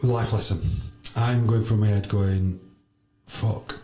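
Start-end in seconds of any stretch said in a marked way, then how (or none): 3.3-3.8 a stunned whispered swear under the breath; whispered fuck in shock; whispered curse. Retold or imitated. His panicked inner thought.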